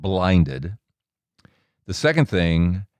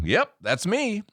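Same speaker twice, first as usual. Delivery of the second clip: proud admission; 13 semitones higher, 4 dB quieter, slower than usual. Retold or imitated. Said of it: "I was proud of it".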